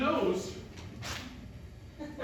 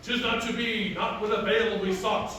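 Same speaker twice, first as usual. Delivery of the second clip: declaimed mock-archaic refusal; resolute masked hero; 5 dB louder than usual. Hero refusing Selina because London needs him, declaimed. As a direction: orate it like a stage hero. Acts the hero of his play.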